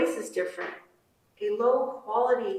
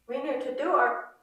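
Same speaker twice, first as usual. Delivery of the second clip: put-on higher, Navajo-accented mother voice; 6 semitones higher, 3 dB louder than usual. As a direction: read it as the Navajo mom. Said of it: "a Navajo woman's accent".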